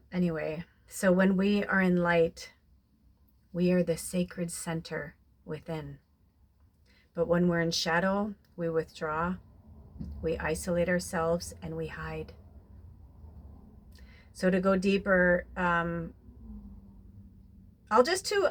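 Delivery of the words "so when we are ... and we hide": reading spiritual card. Acted. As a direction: read it gently, letting each line land.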